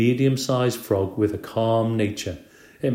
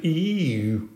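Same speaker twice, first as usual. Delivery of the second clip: groaned ew; 6 semitones higher than usual. A narrator's reading. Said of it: "Everybody else in the class groaned".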